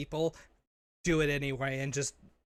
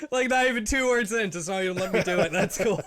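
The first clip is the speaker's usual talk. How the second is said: talking through real laughter, raised voice; laughing protest; 5 semitones higher, 5 dB louder than usual. Real, not acted. Co-host cut off two words in, laughing protest. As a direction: protest while cracking up.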